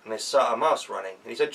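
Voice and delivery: ordinary delivery, nothing marked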